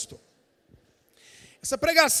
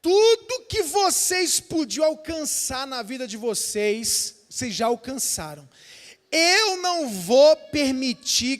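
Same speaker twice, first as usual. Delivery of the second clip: slow, menacing demon voice; demon's taunt; slower than usual. Retold or imitated. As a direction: deny them slowly, like a jailer. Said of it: "o demônio dizia assim". (demônio ameaçador, falando devagar)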